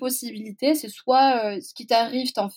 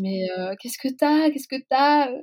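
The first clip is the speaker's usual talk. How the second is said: a grandmother alarmed at her crying granddaughter; imitating a worried grandma; 4 semitones higher than usual.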